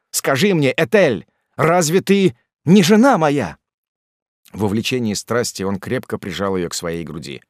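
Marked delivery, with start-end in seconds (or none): 0.1-3.6 rising, louder passionate plea; ardent lover. A narrator's reading. The ordinaire pleading with Ethel, loud and ardent. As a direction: press her, ardent and pleading.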